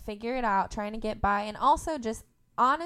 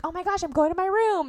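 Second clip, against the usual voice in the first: put-on high, loud teenage outburst; mock teenager; 10 semitones higher, 9 dB louder than usual. Daughter fighting with mom over a spill, mock-teen huff. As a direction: storm off like a hammed-up fifteen-year-old. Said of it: "I'm fifteen again".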